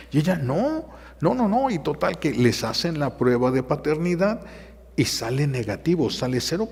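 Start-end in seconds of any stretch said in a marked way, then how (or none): 0.4-1.7 high rising pleas; wife refusing the test; pleading no. Retold or imitated. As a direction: beg him to stop.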